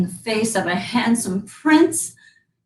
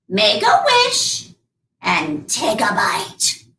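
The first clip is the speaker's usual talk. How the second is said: lightly voiced old beggar woman; much slower than usual. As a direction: coax slowly like the old woman. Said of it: "said the old beggar woman".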